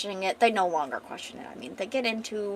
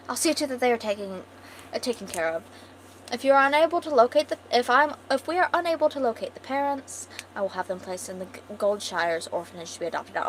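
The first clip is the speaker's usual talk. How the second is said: posh queen; 3 semitones higher, faster than usual. Acted. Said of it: "she's a posh bitch".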